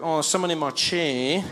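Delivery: mock frustration, drawn out; hint with growing impatience, stretching the number; slow, pointed passive-aggressive complaint; mildly agitated Australian. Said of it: "he's getting more and more agitated".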